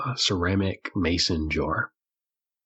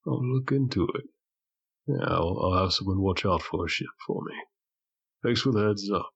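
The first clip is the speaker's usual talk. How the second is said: lightly voiced, slightly higher barkeeper; 3 semitones higher than usual. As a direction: answer as the obliging barkeep. GM voices the barkeeper answering a patron.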